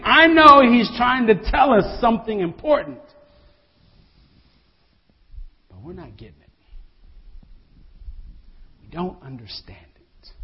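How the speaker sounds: "know" stretched and falling, the rest fading to near silence; puzzled inner thought trailing away; disciples' puzzled thought. Retold or imitated. Disciples staring at Jesus, puzzled and fading off. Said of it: "those disciples are looking at Jesus thinking".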